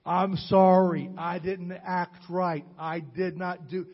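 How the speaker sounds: slow, heartfelt "I'm sorry" to a grandson; sincere apology. Retold or imitated. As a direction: own up to it slowly and gently.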